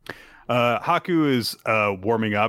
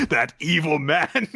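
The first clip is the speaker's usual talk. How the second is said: raised, hammed-up condemnation; mock outrage; 6 semitones higher than usual. Podcaster judging the glove hostage-taker, mock outrage. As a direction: condemn him with playful horror.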